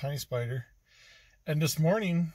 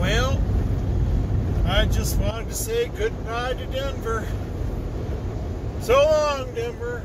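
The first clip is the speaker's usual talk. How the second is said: higher, louder, drawn-out silly voice; odd put-on voice; 6 semitones higher, 5 dB louder than usual. Vlogger saying goodbye to Denver to viewers, in a silly put-on voice. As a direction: slip into a strange new voice for the camera. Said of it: "I don't know why I'm talking like this".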